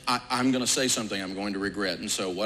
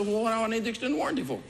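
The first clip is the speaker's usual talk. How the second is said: challenging question; 10 semitones higher, faster than usual. Retold or imitated. His own challenging quote.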